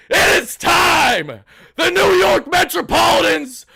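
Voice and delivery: big ring-announcer proclamation, drawn out; hype announcer. Pretend. Streamer introducing the post-game jingle, hype announcer. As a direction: proclaim it loudly, stretching the key words.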